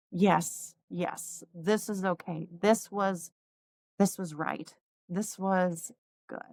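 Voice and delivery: hushed, slowing reassurance to oneself; quiet relief. Retold or imitated. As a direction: let it out softly, at peace. Retells relieved peace about the dress.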